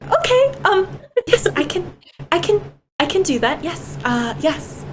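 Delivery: high, stammering and flustered; flustered squeak. Acted. Lily blushing bright red after the whisper, squeaky and flustered. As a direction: blurt it out high, tripping over the words. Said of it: "makes, like, a little squeak".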